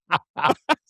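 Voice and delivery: laughter started on cue; rippling practice laugh; deliberate giggle. Shown as a demonstration. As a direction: giggle along as a demonstration. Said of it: "Now you start giggling".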